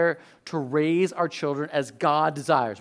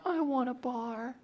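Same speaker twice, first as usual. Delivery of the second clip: Titus; 7 semitones higher, 11 dB quieter than usual. Retold or imitated. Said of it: "for us, it's Titus".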